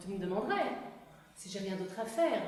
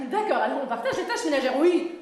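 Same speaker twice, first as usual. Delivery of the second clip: laughing; 4 semitones higher, 9 dB louder, much faster than usual. Pretend. Fast laughing repeat.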